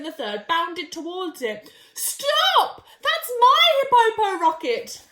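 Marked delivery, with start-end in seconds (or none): 1.9-5.0 shouting stop. Acted. Hippo yells after his rocket.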